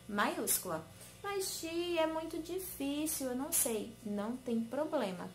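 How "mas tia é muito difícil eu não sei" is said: lightly voiced child, higher and softer; a hint of a whiny little pupil; complaining pupil. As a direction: imitate a small pupil's soft protest. Teacher voices a reluctant pupil.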